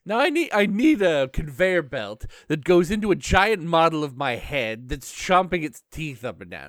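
lightly hammed-up villain making demands; villain placing order. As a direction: put in an excited, emphatic order as the boss. Voices Joker ordering a trap.

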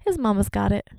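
proudly repeats the lesson; toddler son. Retold or imitated. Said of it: "He's like".

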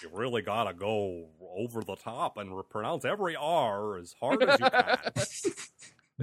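every R in "over", "pronounce", "hard" hit exaggeratedly hard; slow, over-the-top American R's in "every R as hard"; overpronounced R's. Shown as a demonstration. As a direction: lean long and hard on the R in "hard". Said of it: "overpronounce your R's".

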